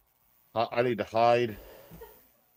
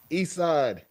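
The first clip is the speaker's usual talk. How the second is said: East Side Herald impression; 5 semitones higher than usual. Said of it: "Like East Side Herald right now".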